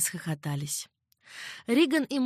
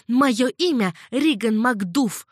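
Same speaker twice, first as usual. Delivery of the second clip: slow, louder stubborn statement; stubborn insistence; 4 semitones higher, 6 dB louder, slower than usual. A narrator's reading. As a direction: plant your feet on each word. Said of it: "заупрямилась девушка". (упрямо, медленно и громче)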